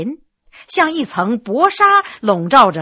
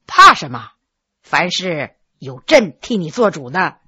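a lower, firmer voice for the emperor; the emperor calms her from above; 8 semitones lower than usual. Acted. Emperor answers her fear. (低沉的皇帝口吻)

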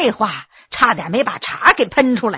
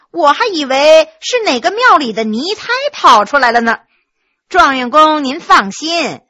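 a lightly voiced maid, teasing and raised; cheeky maid; 3 semitones higher, 3 dB louder than usual. Maid Yu'er teasing the dazed new top scholar, mocking. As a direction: tease him with a sly, mocking edge.

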